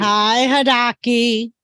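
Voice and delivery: Hidaki said slow in a Boston accent, r dropped. Shown as a demonstration. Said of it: "say it with your Boston accent".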